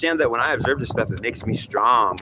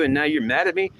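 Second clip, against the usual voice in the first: indignant disbelief; 13 semitones higher than usual. Acted. Acted indignant greeter.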